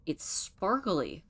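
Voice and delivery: slow, drawn-out marvel; awed wonder. Real, not acted. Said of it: "Why is the end of the world sparkly?".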